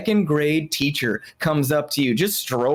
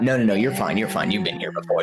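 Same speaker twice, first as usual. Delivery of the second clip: 1 self-soothing; 5 semitones lower, much faster than usual. Acted. Self-reassuring inner voice.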